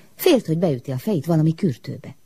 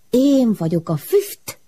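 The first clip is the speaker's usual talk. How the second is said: higher, slow, eerie drawn-out voice; strange smoke voice; 8 semitones higher, slower than usual. A narrator's reading. The smoke answers the frightened girl in a strange voice. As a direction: speak like drifting smoke. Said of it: "miért beszélsz te olyan furcsán?".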